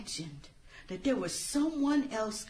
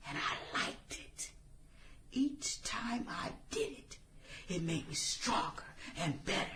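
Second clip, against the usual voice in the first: sinister whisper; 3 semitones lower, 6 dB quieter than usual. Acted. Gloating confession of killings.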